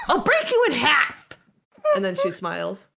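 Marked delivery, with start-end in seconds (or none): 0.1-1.1 loud, high, rapid threat; screaming threat. Acted. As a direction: scream the threat, pitched well up. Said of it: "person she screamed at before".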